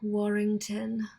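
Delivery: flirty whisper. Acted. Famine introducing herself flirtatiously.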